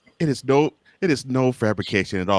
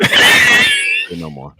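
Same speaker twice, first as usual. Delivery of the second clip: very high, very slow falsetto; squeaky high drawn-out; 9 dB louder, much slower than usual. Pretend. Teasing his co-host, drawn-out squeaky say no more. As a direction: stretch it out in a silly squeak. Mock reply to Wednesday joke.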